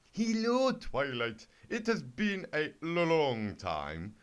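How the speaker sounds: slow, loud, smooth charmer; suave alicorn. Acted. The handsome alicorn greets Twilight in a slow, smooth croon. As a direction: croon it like a dreamy prince.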